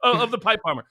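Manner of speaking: high, mock-innocent insistence; sarcastic. Real, not acted. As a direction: pile on the sarcasm, stretching the words. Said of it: "Hashtag sarcasm".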